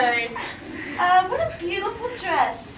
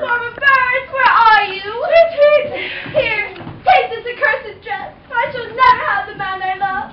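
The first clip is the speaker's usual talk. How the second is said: louder melodramatic lament; hammed-up heartbreak; 4 semitones higher, 4 dB louder than usual. Cinderella calling the birds after the ball, mock heartbroken. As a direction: wail it like a tragic heroine.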